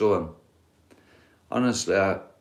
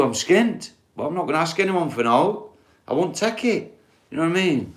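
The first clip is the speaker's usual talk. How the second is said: heated rant; 4 semitones higher than usual. Real, not acted. Heated rant about money and pride.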